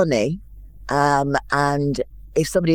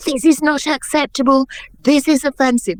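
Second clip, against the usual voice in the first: outraged producer; 8 semitones higher, 3 dB louder than usual. Retold or imitated. Producer objecting to the gag.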